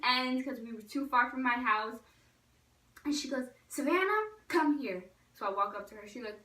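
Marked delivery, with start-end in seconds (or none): 3.7-5.0 imitated calling out. Friend calls her over.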